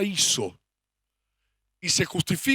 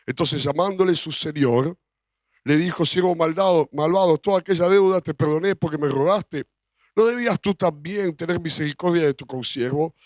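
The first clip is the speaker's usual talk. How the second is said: scripture reading; 2 semitones lower than usual. Acted. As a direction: read the parable like a preacher. Reads Gospel passage aloud. (lectura bíblica solemne)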